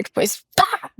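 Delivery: high, playful pá as the phone goes down; mock toss exclamation. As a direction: throw the word away with a flourish. Imitating phone being tossed.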